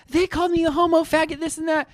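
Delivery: high-pitched imitated complaint; mock screaming. Old man to the owner, mock screaming. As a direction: whine it up high, without real volume. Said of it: "So he's screaming".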